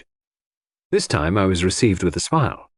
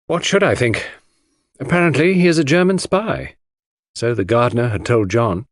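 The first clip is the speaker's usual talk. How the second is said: cold; 3 semitones higher than usual. Acted. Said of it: "Her face and voice were absolutely cold and expressionless".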